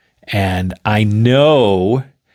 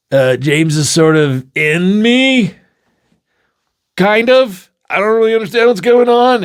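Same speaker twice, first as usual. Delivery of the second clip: confused friend; 9 semitones higher, 4 dB louder than usual. Acted.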